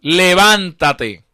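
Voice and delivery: a very slow, drawn-out command. Acted. The Lord orders the fallen Saulo to rise, slow and firm. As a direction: stretch the command out with authority. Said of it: "con voz audible".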